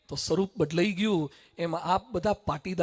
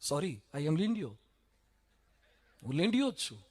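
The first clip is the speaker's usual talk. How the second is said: timid little lamb; 6 semitones lower, 8 dB quieter than usual. Acted. Timid lamb answers the lion.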